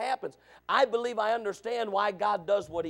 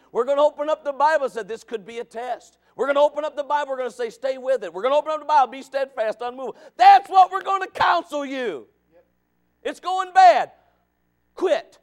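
loud, higher, shouting; fiery preaching; 5 semitones higher, 9 dB louder than usual. Acted. Preacher shouts to the congregation what the pastor will counsel. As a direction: shout the counsel out to the whole room.

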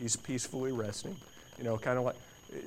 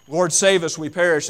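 louder, raised plea; pleading cry; 5 semitones higher, 12 dB louder than usual. Acted. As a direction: call out for help. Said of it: "yelling and screaming".

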